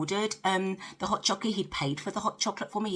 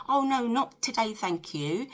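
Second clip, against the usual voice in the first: polite refusal; 5 semitones higher than usual. Retold or imitated. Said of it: "you kind of go".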